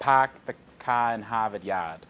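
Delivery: slow, dropped-R Boston accent. Shown as a demonstration. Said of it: "Can, can you say it like the".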